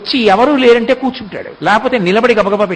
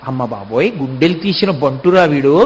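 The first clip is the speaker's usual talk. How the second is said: low, hushed amazed exclamation; a quiet, stunned "amma baboy"; astonished gasp; 7 semitones lower, 3 dB quieter than usual. Retold or imitated. Gopika stunned by the boy's nerve, hushed and astonished.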